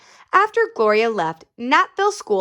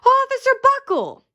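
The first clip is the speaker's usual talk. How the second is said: callers; 3 dB louder than usual. Acted. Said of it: "they said".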